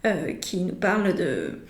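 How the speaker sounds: slowed speech held back by hiccups; talking through a hiccup. Real, not acted. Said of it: "pardon, j'ai le hoquet".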